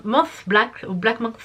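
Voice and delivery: French-tinged attempt at English; self-mocked English accent. Real, not acted. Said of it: "cette super accent anglais".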